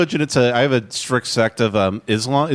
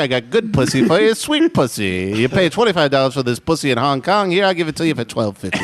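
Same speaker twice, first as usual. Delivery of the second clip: old-time salesman-pimp, hammed up; Jack Lemmon as pimp; 2 semitones higher than usual. Pimp offering his pal a bargain, mock salesman patter. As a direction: pitch a deal as a comic pimp. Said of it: "this character is Jack Lemmon if he was a pimp".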